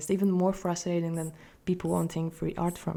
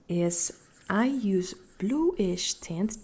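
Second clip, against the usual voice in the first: whispering; much slower than usual. Acted. Soft ASMR-style aside.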